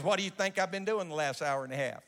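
plain retold question; steady quoted question, not pushed; quoting the prophet. Scene: the old prophet asks the young preachers, plainly. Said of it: "He goes".

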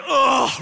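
loud, high mock groan; big acted "ugh". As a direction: groan out loud in hammed-up dread. Acting out arriving a mess.

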